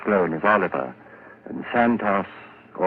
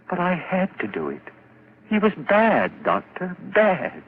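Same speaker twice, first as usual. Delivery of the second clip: manic high pleading; 10 semitones higher than usual. Acted. Madman insisting to the doctor, frantic high pleading. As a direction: voice climbs high, frantic, justifying the killing.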